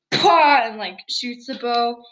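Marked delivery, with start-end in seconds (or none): 0.1-0.6 mock bow shot. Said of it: "she's like".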